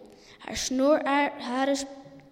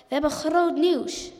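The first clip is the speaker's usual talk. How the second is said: higher mouse call; piping announcement; 4 semitones higher, 4 dB louder than usual. A narrator's reading. Second mouse tries announcing news to the animals, lightly piped. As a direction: pipe up to get attention. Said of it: "Ietje probeerde het ook".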